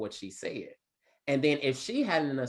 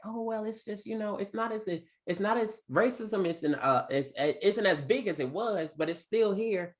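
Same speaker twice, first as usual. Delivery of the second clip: mock hesitant student; 8 semitones higher than usual. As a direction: play the fumbling student who won't commit. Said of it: "one of my Caucasian students was like".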